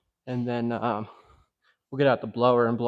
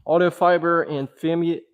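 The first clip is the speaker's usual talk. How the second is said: breathless, gasping between words; winded, struggling to get the words out; out of breath; 2 semitones higher than usual. Real, not acted. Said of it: "I'm out of breath".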